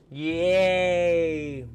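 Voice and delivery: loud, high, drawn-out yay; excited cheer. Real, not acted. Streamer cheering the dogs on screen, excited. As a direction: let out a big happy cheer.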